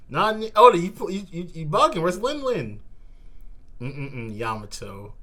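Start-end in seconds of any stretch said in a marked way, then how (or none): 0.1-2.8 high-pitched indignant whine; complaining high and stuttering; high whiny complaint. Real, not acted. Complaining at Oda.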